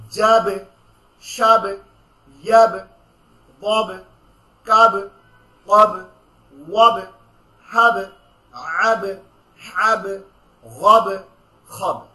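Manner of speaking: each syllable ending in a hard bounced stop, loud; qalqala drill. Shown as a demonstration. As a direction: bounce the final consonant on every syllable. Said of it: "আপনারা আমার সাথে বলেন".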